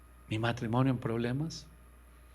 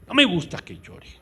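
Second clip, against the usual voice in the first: high, loud self-mocking voice; mocking his former self scolding his wife; mock old self; 6 semitones higher, 7 dB louder than usual. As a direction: mimic how he used to scold her.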